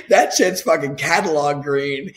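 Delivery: bragging through real laughter; laughing brag. Real, not acted. Bragging to his friend about green grass, laughing. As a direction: crack up while boasting about the lawn.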